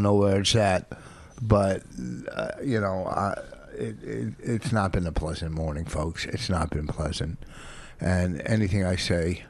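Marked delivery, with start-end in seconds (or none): 2.4-7.4 quiet aside. Real, not acted. Aside to listeners after fight.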